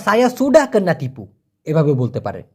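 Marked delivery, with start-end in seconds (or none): 0.1-1.3 very slow, careful Malay; slow Malay model phrase. Shown as a demonstration. Teacher giving alternative Malay phrase, very slow. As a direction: dictate the phrase slowly. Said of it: "অথবা".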